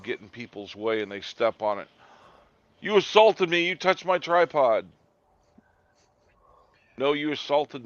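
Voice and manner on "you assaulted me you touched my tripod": high whiny mock complaint; mocking whiny auditor. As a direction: whine it like an offended auditor.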